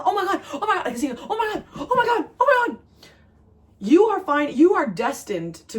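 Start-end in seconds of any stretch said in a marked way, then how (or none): 0.0-2.8 high, laughing squeals of disbelief; mock excited freakout. Viewer finally getting the news, squealing and laughing in excitement. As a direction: gush like the good news just landed. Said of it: "you are going to freak out".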